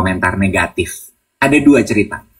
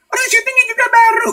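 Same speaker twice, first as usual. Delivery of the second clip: very high mock protest; high squeaky put-on exasperation; exasperated retort; faster than usual. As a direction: throw up your hands in protest. Retold exasperated reply.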